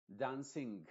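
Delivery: dancing with a hard G at the end; sounded G. Shown as a demonstration. Teacher shows the wrong dancing. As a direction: say dancing ending in a clear G. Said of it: "con una G al final".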